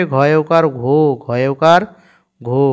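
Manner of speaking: ঘো built from ঘ plus ওকার, said twice; name the letter and the vowel sign, then land on ঘো; spelling the syllable. Shown as a demonstration. Teacher shows learners how ঘ with ওকার reads. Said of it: "তাহলে কেমন উচ্চারণটা হবে?".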